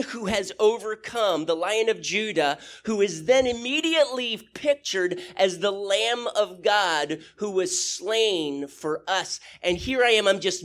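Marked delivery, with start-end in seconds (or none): none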